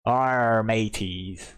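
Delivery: hammed-up pirate hail, fading at the end. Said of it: "Is there anything you're supposed to do here".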